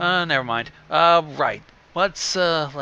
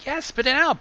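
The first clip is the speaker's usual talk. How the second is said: impatient; 11 semitones higher than usual. Acted. Pinky urging Applejack impatiently.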